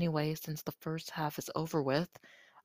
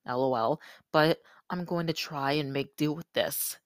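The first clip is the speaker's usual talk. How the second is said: crusty voice. Real, not acted. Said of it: "It's a bit crusty and a bit monotone".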